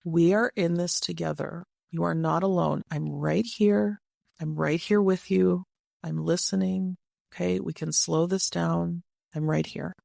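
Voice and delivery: steady, fully attentive reassurance; calm. Shown as a demonstration. Someone speaking to a very stressed partner, calm and present. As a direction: calmly reassure someone overwhelmed, pausing between phrases.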